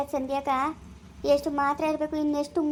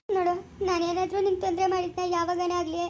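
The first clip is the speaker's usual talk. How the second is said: pleading softly through tears; tearful plea; 3 dB quieter than usual. Acted. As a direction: beg him while crying. Wife pleads with husband, crying.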